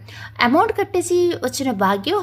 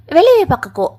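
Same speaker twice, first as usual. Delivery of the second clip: higher, louder angry burst; angry order; 4 semitones higher, 7 dB louder than usual. A narrator's reading. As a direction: order her out of the way. Mother angrily shoving daughter aside. (కోపంగా గద్దింపు)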